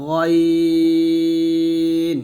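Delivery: "গইন" heavy from the throat, very long; thick throat GH. Shown as a demonstration. Teacher demonstrating ghain, thick and prolonged. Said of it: "শেষ থেকে মোটা করে".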